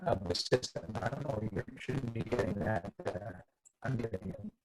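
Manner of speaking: choppy, breaking-up mic audio; mic cutting out. Real, not acted. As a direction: voice dropping out over a bad connection. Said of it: "your mic is cutting out".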